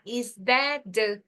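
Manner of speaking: slow "that the" merged into one sound; linked, no pause. Shown as a demonstration. Teacher models the linking for students, slow joined "that the". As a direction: run "that" straight into "the". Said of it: "não tem pausa".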